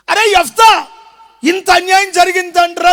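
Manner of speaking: loud, showy concern; mock sympathy. Elders pretending to care for Jephthah, showy loud concern. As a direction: overdo the sympathy.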